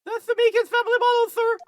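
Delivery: very high, loud, frantic shouting; shouty cop voice. Acted. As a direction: yell it like a panicked rookie. Meekins voice.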